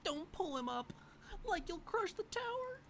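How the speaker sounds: a hint of stoner Shaggy. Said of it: "Okay, Shaggy".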